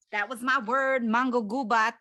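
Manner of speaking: bright, loud announcement of her word; proud announcement. Real, not acted. Announcing her chosen word to her podcast cohost, loud and proud. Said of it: "that sounds so much better".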